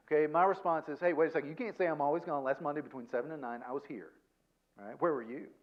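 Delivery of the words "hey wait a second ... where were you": smart-aleck defensive comeback. Retold or imitated. Husband imitating his own defensive comeback to his wife, mock smug. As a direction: throw her complaint back at her, a bit smug. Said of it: "I'm kind of a smart aleck".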